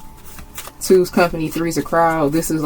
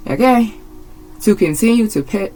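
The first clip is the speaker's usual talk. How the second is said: agitated outburst; 7 semitones higher than usual. Real, not acted. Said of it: "the way that I'm getting agitated and annoyed".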